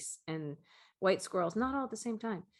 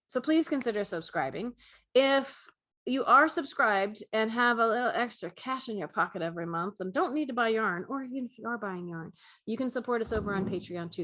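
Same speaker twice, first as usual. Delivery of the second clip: a touch of infomercial voice. Acted. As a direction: pitch it like a light infomercial. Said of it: "And I'm in my infomercial voice now".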